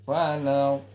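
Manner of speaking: Falaq sung short with a rising note. Shown as a demonstration. Teacher showing students that Falaq rises, short. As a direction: lift the pitch on Falaq, keep it short. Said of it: "Ya, naik".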